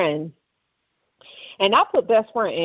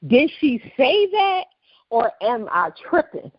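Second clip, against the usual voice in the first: higher-pitched puzzled double take; retold disbelief; 3 semitones higher than usual. Podcaster replaying her reaction to a shocking video, in disbelief. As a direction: question it as if you misheard.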